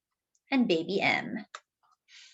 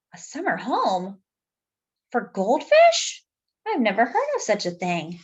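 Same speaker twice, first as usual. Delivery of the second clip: surprised. Acted. Reader marvels at a summer home for goldfish, astonished. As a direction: act out disbelief at the idea. Reader reacts in character to sign.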